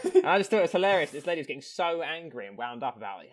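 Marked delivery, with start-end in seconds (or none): 0.1-1.1 laughing. Real, not acted. Laughing at the Karen story.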